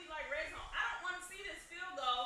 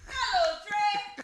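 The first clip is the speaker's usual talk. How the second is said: loud, high, badly faked British accent; hammed-up terrible British greeting; mock British accent; 9 semitones higher, 14 dB louder, much slower than usual. Co-host performs on viewer's request, mock British accent. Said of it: "do that voice that you did last night".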